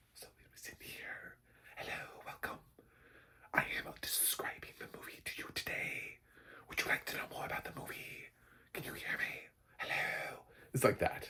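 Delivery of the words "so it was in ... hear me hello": hushed, soft, breathy whisper throughout. Imitating a movie audio description track set to whisper, whispered. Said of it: "Roku has put the track for this audio description at whisper".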